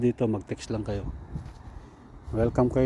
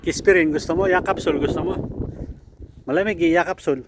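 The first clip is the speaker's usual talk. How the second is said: playful coaxing; 6 semitones higher, 4 dB louder than usual. Real, not acted. Offering drinks to pet, playful.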